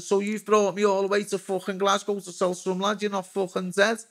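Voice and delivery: incredulous retort. Retold or imitated. Retold disbelieving outburst at a singer.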